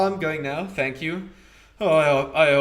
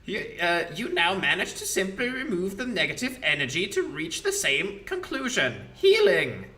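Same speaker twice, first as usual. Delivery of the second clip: mocking ancient lich scolding; Demilich voice; 2 semitones higher than usual. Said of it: "Demilich voice".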